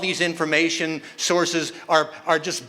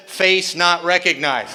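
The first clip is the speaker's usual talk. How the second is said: robotic phone voice; slower than usual. Retold or imitated. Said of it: "it says".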